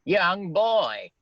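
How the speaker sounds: loud, high call from the window; shouting. A narrator's reading. Scrooge calling from window to boy, loud shout. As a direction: call down to the street. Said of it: "he shouted".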